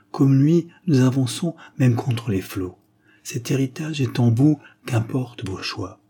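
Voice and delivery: a father driving the lesson home; proud stern father. Acted. Father teaching his son the crest, proud.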